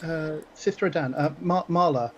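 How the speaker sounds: lightly voiced friendly young priest; friendly young acolyte. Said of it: "her voice is friendly".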